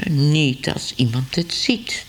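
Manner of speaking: slow whisper, conspiratorial; whispered aside. Acted. Ellemeet plotting to kick cats unseen, slow whisper. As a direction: breathe it like a guilty secret. Secret thought about kicking cats.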